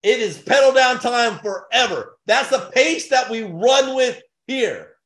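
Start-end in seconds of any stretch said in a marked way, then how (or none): 0.0-2.2 hyped shout. Real, not acted. Hyping the pace.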